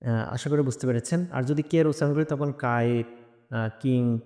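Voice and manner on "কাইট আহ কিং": কাইট and কিং with an unpuffed k; hard k without breath in কাইট, কিং; unaspirated start on কাইট and কিং; wrong K sound. Shown as a demonstration. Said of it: "letter ভুল উচ্চারণ করার কারণে".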